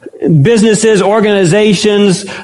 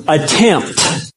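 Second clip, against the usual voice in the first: "attempt" set apart by a pause; stress on attempt; 2 semitones lower, 4 dB quieter than usual. Real, not acted. Preacher singling out a word for listeners, emphasis on "attempt". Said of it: "Let me emphasize the word".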